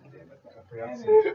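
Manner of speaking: laughing through a frustrated blurt. Real, not acted. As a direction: crack up mid-sentence. Flubs line, breaks up laughing.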